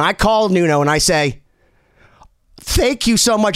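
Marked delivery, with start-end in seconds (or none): 2.6-3.6 teary whisper. Retold or imitated. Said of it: "as I'm crying".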